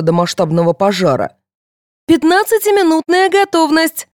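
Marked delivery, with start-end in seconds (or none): 2.1-4.1 radio announcement. Acted. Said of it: "ожило радио".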